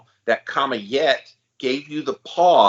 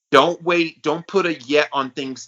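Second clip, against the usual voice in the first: emphatic; 5 semitones higher than usual. Real, not acted. Urging listeners.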